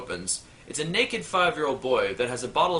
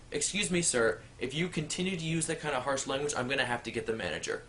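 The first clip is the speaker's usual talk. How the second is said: prim warning; 6 dB quieter than usual. Acted. Prim teller threatens manager.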